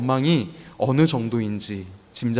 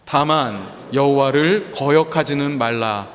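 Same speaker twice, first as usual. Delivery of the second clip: scripture reading; 2 semitones lower, slower than usual. Real, not acted. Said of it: "함께 읽어보겠습니다".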